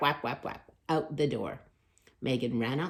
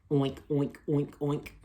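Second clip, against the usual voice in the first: pig oinks. Acted. Pigs oink on bus.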